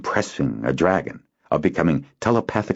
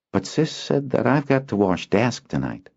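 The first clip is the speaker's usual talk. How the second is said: put-on sly boy; 7 semitones higher than usual. Boy baiting his friend, sly. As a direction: dangle the bait. Kinden scheming.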